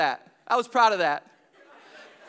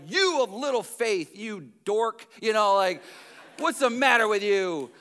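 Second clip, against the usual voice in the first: mild mock scolding; condemning, mock scolding. Preacher showing the wrong reading of Jesus, condemning. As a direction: imitate a preacher telling someone off. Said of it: "not in a condemning way".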